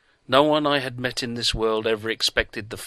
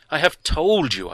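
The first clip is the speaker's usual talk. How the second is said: spluttering; 7 semitones higher, 6 dB louder than usual. A narrator's reading. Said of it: "I spluttered".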